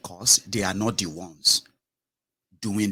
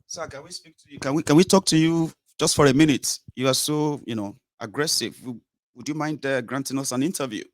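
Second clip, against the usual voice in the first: reporter; 5 semitones higher than usual. Shown as a demonstration. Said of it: "Like this".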